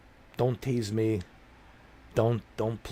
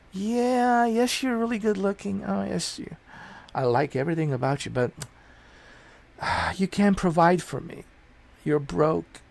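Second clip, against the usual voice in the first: high, sweet mock woman's voice brushing him off; 6 semitones higher than usual. Mocking a date who rejects a broke man, high sweet mock woman's voice. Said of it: "It's like, hmm".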